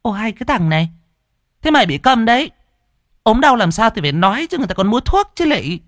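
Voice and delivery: high-pitched exasperated scolding, fast; mẹ cáu gắt, giọng cao và nhanh; irritated snapping. Acted. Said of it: "đến mức bà cáu gắt".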